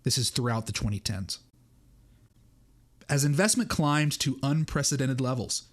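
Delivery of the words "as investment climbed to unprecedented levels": reading through a hiccup. Real, not acted. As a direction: hiccup breaking the line. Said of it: "I got the hiccups right on cue".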